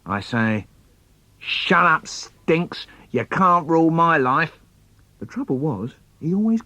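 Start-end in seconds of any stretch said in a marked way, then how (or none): 1.4-4.6 mildly angry comeback, pitched up a little; a touch of mock defiance; child's defiant retort. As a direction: talk back to a bossy brother. Acted child retorts to brother.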